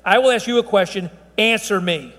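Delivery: "answer me" as a firm, falling command; pointed demand on "answer me"; emphatic. Retold or imitated. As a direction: put the weight on "answer me". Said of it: "they're being emphatic".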